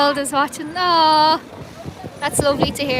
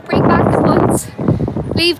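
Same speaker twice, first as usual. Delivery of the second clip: slogan shout; 5 dB louder than usual. Real, not acted. Protest slogan called out.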